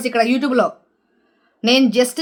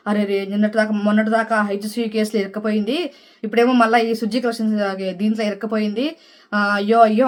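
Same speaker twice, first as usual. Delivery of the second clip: mock sympathy; 4 semitones lower, 4 dB quieter than usual. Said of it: "అనుకుంటే చాలామంది ఆమెను పాపం".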